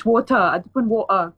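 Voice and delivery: water said the British way, wota, no r. Shown as a demonstration. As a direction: give water a crisp British t and drop the r. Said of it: "Kalau British".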